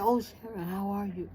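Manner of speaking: high-pitched, tender imitation; retold tearful mother. Mother asking after her found daughter, tearful. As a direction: act out a mother overcome on the line. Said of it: "she was on the other end crying".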